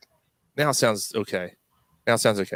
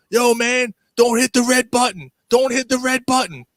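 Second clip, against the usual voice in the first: high-pitched insistent call, imitated; retold urgent calling; 9 semitones higher than usual. Flight attendant warning through bathroom door, imitated urgent call.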